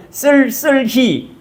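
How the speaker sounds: "쓸쓸히" pushed out syllable by syllable; "쓸쓸히" slow and effortful, with a clear h; forced standard pronunciation. Shown as a demonstration. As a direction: force the tense double-s in "쓸쓸히". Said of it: "힘줘서 할 수 있지만".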